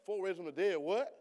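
loud, high cry of disbelief; mock disbelief. Preacher mimics congregation gasping loudly in disbelief. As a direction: act out the church gasping in shock.

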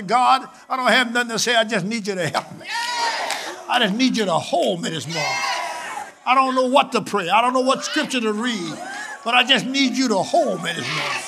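pleading prayer. Acted. Acted prayer asking God's help.

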